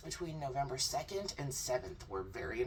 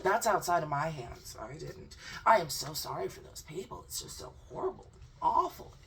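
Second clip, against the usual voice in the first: mock innocent guest; 4 semitones higher, 5 dB louder than usual. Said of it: "say the same thing for Japan".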